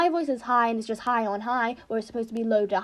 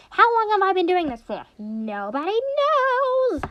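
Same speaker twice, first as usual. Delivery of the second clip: high character voice with a long drawn-out ending; going high; 8 semitones higher than usual. Shown as a demonstration. Gamer trying out the mascot voice, high and stretched. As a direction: climb high and stretch the last words. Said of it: "eventually I can go high from this".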